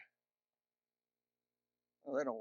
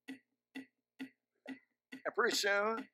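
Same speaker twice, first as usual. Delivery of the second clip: slow build; 2 semitones higher, 6 dB quieter, much slower than usual. Real, not acted.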